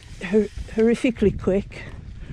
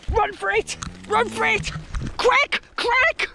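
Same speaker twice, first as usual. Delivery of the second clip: high, hammed-up cries to flee; play-acted alarm, pitch jumping up; mock panic; 8 semitones higher than usual. Mock panic fleeing the cows.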